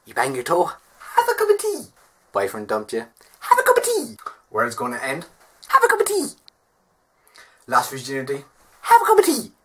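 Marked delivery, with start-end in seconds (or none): 0.7-1.9 much higher, slow singsong advice; high slow mock-motherly "have a cup of tea"; put-on advice voice. Mock advice for every problem. 3.4-4.2 put-on advice voice. Mock advice for every problem. 5.7-6.3 put-on advice voice. Mock advice for every problem. 8.8-9.5 high loud mock-motherly "have a cup of tea"; much higher, louder put-on advice voice. Mock advice for every problem.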